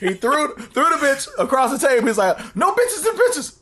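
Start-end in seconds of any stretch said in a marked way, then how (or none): 0.0-2.1 raised pitch, laughing through the words; laughing while talking. Real, not acted. Retelling while cracking up. 2.5-3.6 high, slow mock protest through laughter; laughing mock outburst. Quotes Gary's outburst while laughing.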